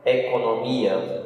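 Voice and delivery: Economia said a little slowly with the weight on mi; stress on MI. Shown as a demonstration. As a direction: lean on the syllable mi in Economia. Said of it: "E a sílaba forte é mi". (ênfase na sílaba mi de Economia)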